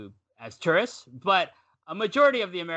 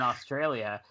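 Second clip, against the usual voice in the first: ordinary delivery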